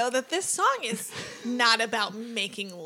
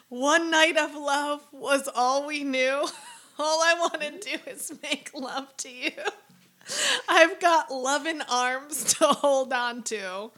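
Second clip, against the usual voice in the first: slow deadpan recital; straight-faced reading. Shown as a demonstration. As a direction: read it dead serious, slowly. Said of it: "read this with a straight face".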